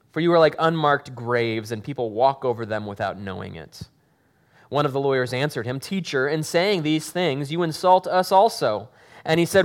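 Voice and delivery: steady, earnest Bible reading to the congregation; scripture reading. Acted. Pastor reading the gospel aloud to the congregation, earnest. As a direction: read the passage aloud with weight.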